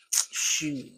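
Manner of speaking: slow, drawn-out Shoot; dragged out. A narrator's reading. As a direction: Shoot stretched long and slow. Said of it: "He dragged the word out".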